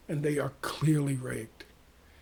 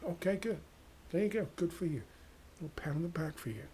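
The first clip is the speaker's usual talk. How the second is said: sarcastic praise; 9 dB quieter than usual. Acted. Mock praise for choosing.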